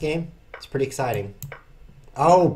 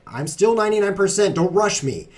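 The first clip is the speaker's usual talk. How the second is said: progress bar voice; 7 semitones higher, 6 dB louder than usual. Pretend. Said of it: "it would just sit there for half an hour like".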